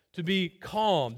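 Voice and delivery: drawn out slowly, each word weighed; preacher repeating "to be calm" slowly to drive it home; slow emphatic repeat. Real, not acted. Pastor stresses calm to congregation, slow and deliberate. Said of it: "we are commanded ... to be calm".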